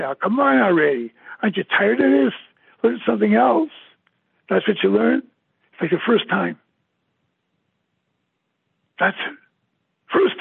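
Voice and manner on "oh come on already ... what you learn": raised, half-scolding voice of a doubter; lightly acted impatient scoffer; mock exasperation. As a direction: needle him like someone fed up with the repetition. Voicing an imagined scoffer.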